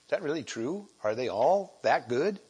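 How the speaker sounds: mock doubting thoughts, ending in a laugh; doubtful listener. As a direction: voice the unconvinced radio listener. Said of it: "and you think".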